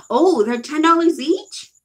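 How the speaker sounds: startled high loud question; shocked. Real, not acted. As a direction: gasp at the price. Shocked at lipstick price.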